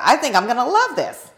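laughing through the words; giddy, a laugh in the voice. Retold or imitated. Selling her old house in one day, laughing. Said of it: "and I said".

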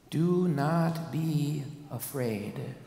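very slow, soft reassurance; gentle angel's reassurance; reassuring. Acted. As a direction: comfort them gently.

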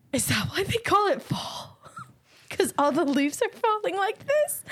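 high, slow, amazed question; wide-eyed naive wonder. Retold or imitated. To her friend's sister, marveling at falling leaves, slow and amazed. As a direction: gasp and marvel like you just discovered it. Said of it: "I sounded like a freaking idiot".

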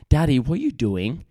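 put-on questioning toddler. Dad mimicking his daughter questioning everything, high child voice. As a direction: pipe up like a curious little kid.

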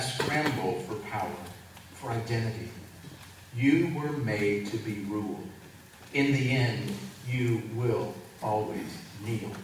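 slow, commanding villain quote; a hint of a menacing god; dark lord. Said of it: "and he says".

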